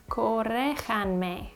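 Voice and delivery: corréjanme said slowly, syllable by syllable; slowly trying out corréjanme as a self-correction; slow careful correction. Shown as a demonstration. Self-correcting her Spanish for viewers, slow and careful. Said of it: "Corregir is an I R verb. But do I use subjunctive?".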